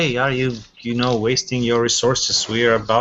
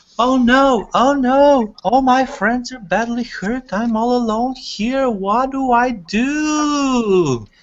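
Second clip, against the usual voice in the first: very high, gentle, stretched-out elf cry; 13 semitones higher, 3 dB louder than usual. Retelling how he started shouting as his elf, in a gentle elf voice. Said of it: "in the most gentle voice an elf can make".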